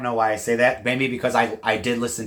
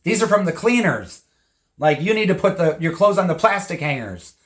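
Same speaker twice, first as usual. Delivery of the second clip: higher-pitched mock scolding; retold yelling; 5 semitones higher than usual. Priscilla scolds Lisa Marie about wire hangers, mock yelling. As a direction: imitate a mother telling off her daughter. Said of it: "like, yelling at Lisa Marie saying".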